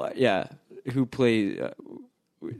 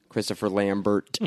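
put-on French accent; 4 semitones lower than usual. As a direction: say Lambert with a light French accent. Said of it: "That's how he says his own name".

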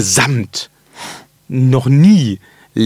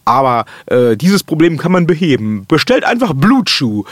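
ad read. Pretend. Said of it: "wie dann der Undertaker sagt".

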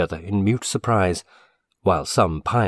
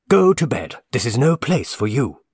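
high, loud furious order; fierce father; 6 semitones higher, 4 dB louder than usual. A narrator's reading. Father angrily orders his son to bed, shouting. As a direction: drive the boy off to bed in fury. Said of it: "exclaimed the father fiercely".

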